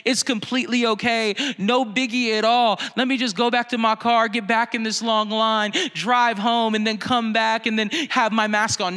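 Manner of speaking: overly sweet, gracious reply in a put-on voice; hammed-up holy politeness he never actually gave; mock saintly kindness. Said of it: "I gave this guy the kindest response".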